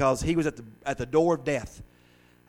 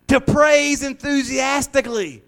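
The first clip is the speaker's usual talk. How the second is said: slow, higher, praise stressed; emphatic definition; 9 semitones higher, 5 dB louder, slower than usual. Shown as a demonstration. Preacher teaching what extol means, slow emphatic. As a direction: lean hard on "praise" slowly. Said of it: "You know what that word extol means?".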